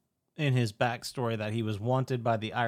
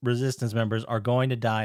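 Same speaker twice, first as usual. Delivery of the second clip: urgent warning; 5 dB louder than usual. Retold or imitated. Luke warning the hero about resistance members dying, mock-urgent warning. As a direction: press the stakes, louder.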